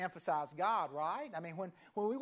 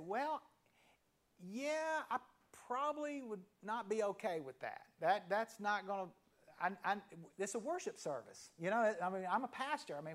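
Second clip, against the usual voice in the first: hammed-up disbelief, halting, with laughs; mock incredulous reply. Pastor retelling his shocked reply to the groom, lightly exaggerated disbelief. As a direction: play up the pastor's shocked comeback. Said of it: "I didn't quite say it like that".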